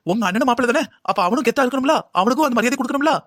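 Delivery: angry rant. Acted. Mother scolding daughter over son-in-law, indignant. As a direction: insist on respect for her son, voice rising.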